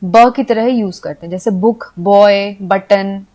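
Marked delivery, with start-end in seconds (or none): 0.0-0.3 ब as a short "buh"; ब with b and a short vowel. Shown as a demonstration. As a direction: sound out ब, not the letter name. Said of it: "तो बी को हम".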